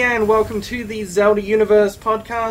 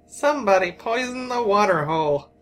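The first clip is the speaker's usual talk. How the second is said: put-on American accent. Australian host quoting a cartoon cowboy to co-host, mock American accent. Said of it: "trying to do an American accent".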